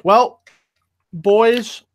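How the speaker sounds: talking with a mouthful of food; words round a bite being chewed; chewing while talking. Real, not acted. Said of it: "sorry, I'm chewing".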